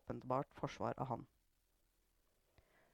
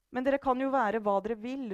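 raised, high, loud outburst; shouting; 7 semitones higher, 6 dB louder than usual. A narrator's reading. Mother to her grown family, shouting in exasperation. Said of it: "ropte moren".

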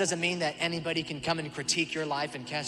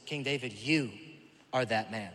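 grave accusation; 5 semitones lower than usual. Retold or imitated. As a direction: look him in the eye and drop it.

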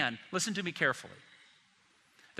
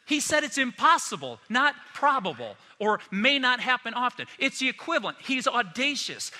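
forceful preaching; 6 semitones higher, 3 dB louder than usual. Acted. Preacher hammering the point.

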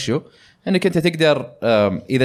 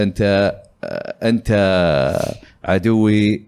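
lightly robotic, low villain line; robotic villain imitation; 4 semitones lower, slower than usual. Mocking the villain's poor voice acting, lightly robotic. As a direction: imitate a wooden game villain, half-hearted. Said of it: "أنا ما عرفت قلده زين. جبتها روبوت".

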